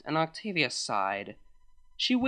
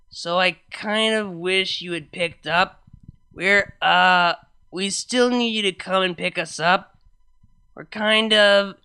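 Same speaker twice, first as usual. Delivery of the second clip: put-on sheepish drunk voice; 3 semitones higher, 6 dB louder than usual. Sheepish call from jail.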